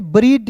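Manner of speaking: ब्रीड ending in a hard D, "breed"; ब्रीड as a misreading of bridge; mistaken spelling pronunciation. Shown as a demonstration. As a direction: say ब्रीड with the D sounded and no j. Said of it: "नहीं पढ़ेंगे".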